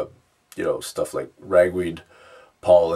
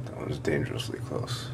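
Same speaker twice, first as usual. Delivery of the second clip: whispering; 2 semitones lower, 8 dB quieter than usual. Real, not acted. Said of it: "I should probably stop this".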